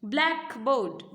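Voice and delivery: ब्लैकबोर्ड slowly as BLACK, BOARD; two-part split. Shown as a demonstration. Teacher dividing ब्लैकबोर्ड into two parts, slow split. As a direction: separate ब्लैकबोर्ड into its two halves. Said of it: "दो parts में आपने इसको divide किया".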